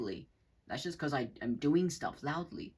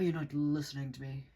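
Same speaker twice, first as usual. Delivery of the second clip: annoying narcissist. Acted. Narcissist complaining of not being heard, annoying tone. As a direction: imitate an annoying person's grumbling protest. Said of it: "they kinda sound fucking annoying".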